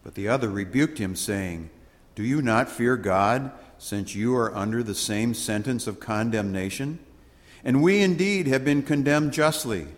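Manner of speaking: measured, ceremonial scripture read; solemn Gospel reading. Acted. Priest reading the Gospel aloud to the congregation, solemn.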